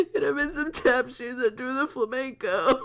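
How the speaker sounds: high, squeaky words through giggles; helpless laughter. Real, not acted. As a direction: cackle while trying to talk. Cracking up at dancing character.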